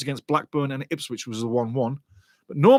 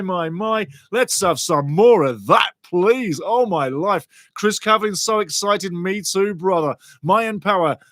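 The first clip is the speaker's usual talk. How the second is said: ordinary talk, nothing marked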